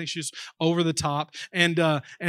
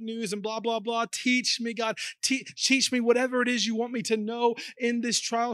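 pleading prayer; 5 semitones higher than usual. Pretend. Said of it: "voiced prayer of sufferer".

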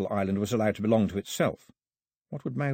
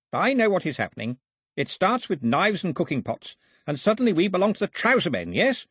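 a lightly voiced old priest, pitch rising as he gets heated; a tired old man warning the girl, voice climbing; bitter old priest; 8 semitones higher than usual. A narrator's reading.

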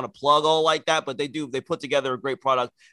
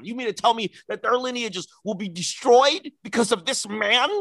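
a hint of hammed-up disbelief, pitched higher; mock outrage; 3 semitones higher than usual. Fan ranting to co-host in mock outraged disbelief. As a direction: lightly play the indignant fan.

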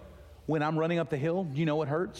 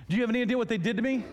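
mock indignant; 7 semitones higher, 3 dB louder, much faster than usual. Pretend protest to God.

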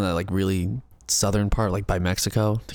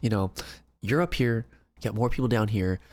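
mlm recruiter pitch; 4 dB quieter than usual. Pretend. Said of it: "This sounds like a pyramid scheme pitch".

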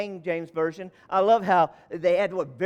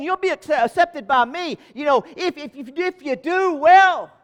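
voice of God; 7 semitones higher, 6 dB louder than usual. Acted. God's words to Cain voiced.

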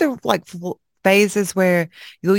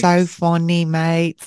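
mock British accent; slower than usual. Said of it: "talking like I'm British".

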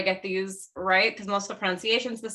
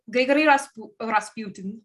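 mock Russian accent, name rolled out with a Russian lilt; a playful, half-hearted stab at a Russian accent on the name; Russian accent attempt; 3 dB louder than usual. Podcast host introducing Rasputin, light mock Russian accent. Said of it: "that's my attempt at a Russian accent".

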